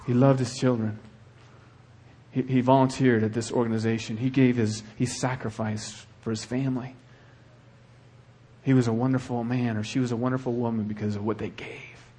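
sincere eulogy. Pretend. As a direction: speak of him gently. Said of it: "Or was it".

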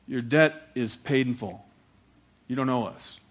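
a touch of gruff, matter-of-fact finality; gruff dad. Retold or imitated. Dad cancelling his son's debt, mildly gruff. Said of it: "just kinda gruff and hard worker".

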